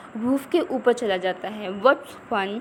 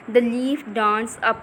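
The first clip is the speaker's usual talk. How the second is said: slow reading aloud; much slower than usual. Shown as a demonstration. Teacher reads text slowly.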